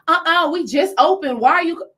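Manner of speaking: loud, high, sassy clerk; rude clerk voice. Retold or imitated. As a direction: snap back like an annoyed cashier. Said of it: "let me not talk like that, 'cause that sounds like she was a black woman".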